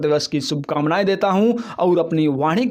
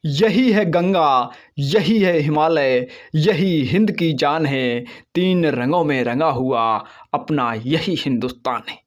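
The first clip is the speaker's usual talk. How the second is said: poem recitation. Acted. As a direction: recite it like a proud anthem.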